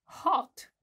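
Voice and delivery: exclaimed high and loud; loud excited hot. Shown as a demonstration. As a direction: burst out the word as if scorched. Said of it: "spunem hot".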